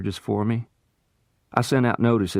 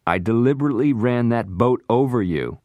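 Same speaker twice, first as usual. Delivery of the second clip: forced confession; 7 semitones higher, 4 dB louder than usual. Acted.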